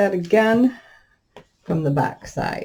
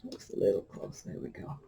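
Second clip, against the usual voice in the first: whispering; 10 semitones lower, 16 dB quieter than usual. Real, not acted. Muttered while fitting pieces.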